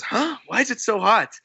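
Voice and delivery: high, rising mock bewilderment; puzzled surprise. Acting Sanji puzzled by sudden heat.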